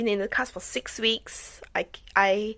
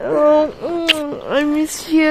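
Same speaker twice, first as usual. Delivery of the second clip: tearful I miss you; 5 semitones higher, 6 dB louder, slower than usual. Real, not acted. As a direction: voice choked with tears. Tearful reunion with her kids.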